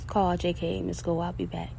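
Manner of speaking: soft whisper to close the show; hushed whisper ending the podcast; whispered sign-off. Real, not acted. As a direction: whisper it like a secret goodbye.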